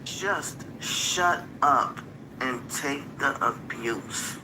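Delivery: slow, drawn-out mock order; slow mocking quote. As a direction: drag it out, mocking. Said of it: "they want you to just shut up".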